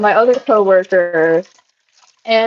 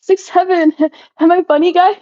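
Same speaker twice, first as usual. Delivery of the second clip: laughing mock; 10 semitones higher than usual. Imitating old person saying meme.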